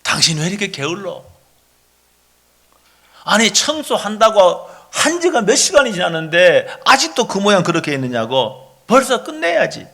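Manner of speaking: scolding spouse, pitch jumping up at the end; acted nagging. Spouse complaining about unfinished cleaning, acted nagging. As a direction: nag with impatient reproach, play-acted. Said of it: "이렇게 이제 말을 한다 그러면은".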